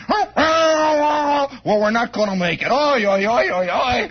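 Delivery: half-hammed cry of alarm, then nervous laughing oi oi; mock panicked yell. Driver sees a car coming head on, mock panic yell. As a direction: act out a driver about to crash, half joking.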